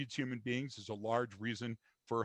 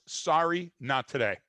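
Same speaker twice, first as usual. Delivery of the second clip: firm brush-off; 2 semitones higher, 4 dB louder, slower than usual. Shown as a demonstration. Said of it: "Justin, mine's".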